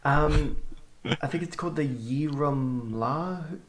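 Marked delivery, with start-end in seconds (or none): 1.8-3.6 Yirramla sounded out slowly and hesitantly; unsure pronunciation. Real, not acted. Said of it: "apologizing now for my pronunciation, which will be bad".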